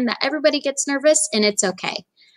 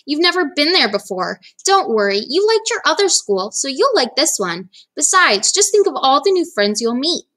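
lightly raised, encouraging dad; coaxing father; 4 semitones higher than usual. Acted. Dad reassuring Sarah about school, upbeat coaxing. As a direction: cheer her up, higher pitched.

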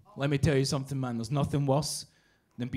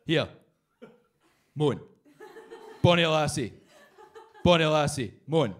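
Scottish hawker call. Retold or imitated. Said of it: "Scottish guy going up to people going".

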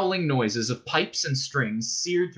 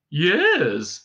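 higher mad passer-by's yes; passing maniac; 4 semitones higher, 4 dB louder than usual. A narrator's reading. Maniac butting in on Arthur and Ford, passing maniac. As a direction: play a hint of a passing maniac. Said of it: "said a passing maniac".

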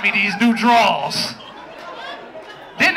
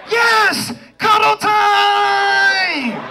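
fake excitement; 8 semitones higher, much slower than usual. Boyfriend faking joy at cuddle time, mock excited. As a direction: cheer like it's the best news ever. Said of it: "I had to lie".

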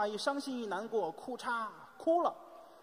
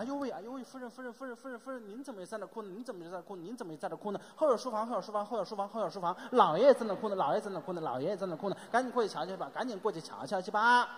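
flustered maid; faster than usual. Acted. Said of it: "小丫鬟赶紧过来了".

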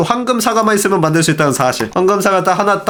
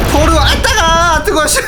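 high-pitched cry of getting burned; pained, comic high outburst; startled yelp; 12 semitones higher than usual. Real, not acted. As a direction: yelp as if stung mid-sentence. Hit by own lightning.

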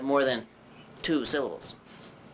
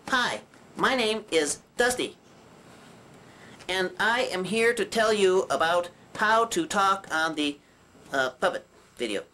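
demonstrating; 3 semitones higher than usual. Shown as a demonstration. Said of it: "Something like this".

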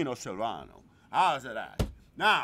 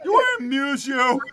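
higher, loud echo of the threat; mock menacing; 9 semitones higher, 13 dB louder than usual. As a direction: toss the gangster line back. Echoes the same line.

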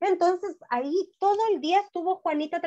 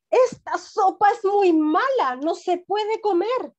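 put-on whiny child; 5 semitones higher, 4 dB louder, slower than usual. Child complains about the soup.

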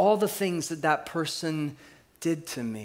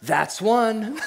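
calm but pointed "That's one"; a deadpan warning to her husband; laughing through the cowgirl's punchline; dry deadpan; 4 semitones higher, 4 dB louder than usual. Retold or imitated. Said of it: "sits up and looks at him and says".

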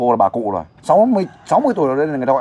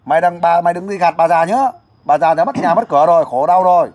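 higher, insistent scolding on someone's behalf; demonstrated loud plea; 4 semitones higher, 3 dB louder than usual. Shown as a demonstration. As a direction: model a forceful complaint to an absent debtor. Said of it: "nói to lên". (làm mẫu mắng đòi nợ, giọng cao)

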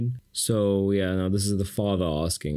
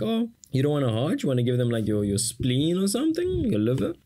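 mocking mom; 5 semitones higher than usual. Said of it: "a little bit of a joke here, like".

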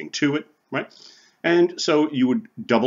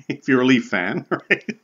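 chuckling through a teasing aside; laughing; 3 semitones higher, 3 dB louder than usual. Real, not acted. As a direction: let a real laugh break into the words. Teasing joke about rival hockey fans.

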